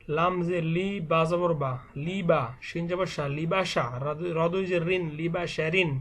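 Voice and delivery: measured letter-by-letter Quran primer reading; spelling drill recitation. Shown as a demonstration. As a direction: recite each spelling, then join the syllables. Spells Arabic words aloud as drill. (বানান করে টেনে টেনে পড়া)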